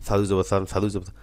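সা দুই জবর সান rattled off quickly; the rushed way to read সা দুই জবর সান; hurried reading. Shown as a demonstration. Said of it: "তাড়াহুড়ো না".

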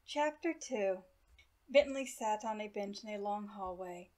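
measured, evenly paced read-aloud; bedtime story narration. A narrator's reading. Reader to listeners starting chapter two of Prince Umbra, story narration.

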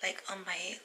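hoarse whispered voice; whispering. Real, not acted. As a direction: whisper through a failing voice. Speaks with a damaged voice throughout.

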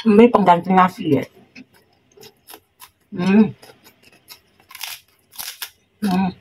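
talking with food in mouth; speaking while eating; chewing. Real, not acted. Seen 0: Chews after cracker bite, then bites red chili mid-phrase.

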